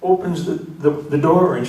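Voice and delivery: loud, high comic storytelling; animated build-up. Retold or imitated. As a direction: build the outrage toward the punchline, stretching key words. Building to punchline, man screaming and yelling.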